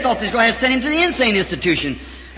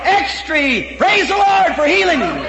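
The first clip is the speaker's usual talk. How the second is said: hollering newsboy call. Retold or imitated. Old man hollering to the street, joyful shout. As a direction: shout it like selling papers. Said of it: "he hollered".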